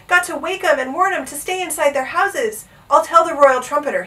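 mild high-pitched shout; urgent shout. A narrator's reading. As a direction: call it out urgently. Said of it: "he shouted".

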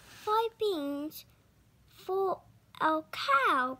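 shocked, drawn-out cry; appalled mother crying out at the trade. Acted. Mother cries out in shock at the beans, drawn out. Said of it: "cried his mother".

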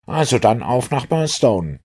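rally the others to leave; lightly acted eager departure; rousing call to go. A narrator's reading. Inspector jumps up to leave.

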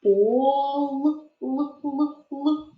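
"Пол" stopped on a held л, then л repeated alone; isolated consonant. Shown as a demonstration. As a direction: linger on the l ending "Пол". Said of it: "Визначимо третій звук".

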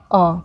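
अ said as a short open a; अ as in अनार; plain a vowel. Shown as a demonstration. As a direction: say hamza as a plain अ. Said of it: "जिसका pronunciation होता है".

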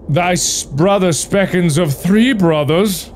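high, lilting talking tree. Acted. Talking tree tells the woodcutter of three brothers, high voiced. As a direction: pitch it up like a sprightly little tree.

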